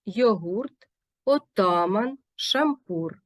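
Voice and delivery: words like чумак, тютюн, шашлик stressed on the last syllable; measured word list, each stress clearly placed; correct Turkic-loan stress. Shown as a demonstration. Teacher modelling Turkic loanwords like базар, stress clearly marked. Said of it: "правильно треба ставити наголос".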